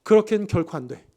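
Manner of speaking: 그렇게는 stressed in a firm, commanding refusal; dictatorial. Acted. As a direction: bark out 그렇게는 결코 안 돼 as a final order. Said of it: "아주 단독지식적으로 이야기를 하고 있어요".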